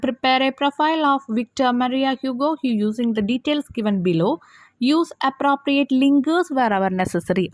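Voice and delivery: drawn-out reading of the exam question; slow reading aloud. Shown as a demonstration. Teacher reads the question paper to students, slowly. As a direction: read it out slowly so they can follow.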